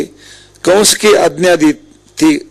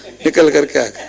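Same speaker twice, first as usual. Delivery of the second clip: quietly laughing through the line; amused at the wife's excuse; 2 semitones lower, 4 dB quieter than usual. Real, not acted. Comic buffet excuse, then leaves. (हल्की हँसी के साथ, धीमे से)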